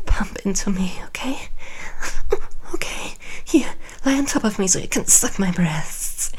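breathy praise between moans; sweet nothings. Acted. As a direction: whisper sweet nothings to him. Lover's praise during sex.

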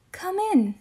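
high, put-on old lady voice; a wolf faking granny's voice. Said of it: "trying as hard to sound as much like an old lady".

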